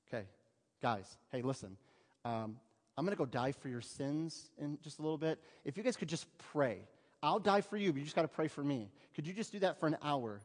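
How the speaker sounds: low, soft and drily sarcastic; a tired plea to sleepy friends, under the breath; Jesus quietly pleading with the sleeping disciples; weary Jesus. Acted. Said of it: "If I was Jesus, this would be me".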